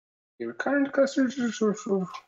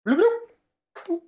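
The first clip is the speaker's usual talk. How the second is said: bloop sound effect; 13 semitones higher than usual. Shown as a demonstration. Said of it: "It's a".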